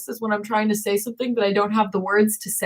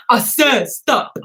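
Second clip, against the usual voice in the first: slow stern; 2 semitones higher, much slower than usual. Retold or imitated. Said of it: "and she's like".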